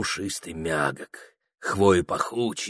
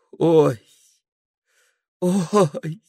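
high, startled oh; dreamer's cry of alarm; 8 semitones higher, 4 dB louder than usual. A narrator's reading. Прохор crying out in his dream, alarmed. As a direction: cry out as in a nightmare.

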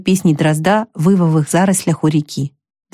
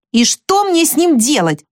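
higher, slow, sighing question; 9 semitones higher than usual. A narrator's reading. Jo at a loss over Laurie, a slow sighing question. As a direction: let the words go on a sigh. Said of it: "вздохнула Джо".

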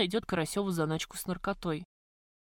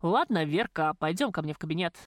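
миролюбиво; 2 semitones lower than usual. Acted. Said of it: "миролюбиво добавил он".

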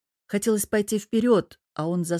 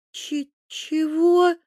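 high, slow, stammered disbelief; stunned disbelief; 9 semitones higher, 3 dB louder, much slower than usual. Acted. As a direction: she can't believe her ears. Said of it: "не поверила Тереза своим ушам". (ошеломлённое, заикающееся «чего?»)

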